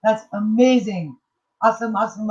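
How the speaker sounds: high and loud cheering; excited praise. Real, not acted. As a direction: cheer her on. Praising viewer's good grade.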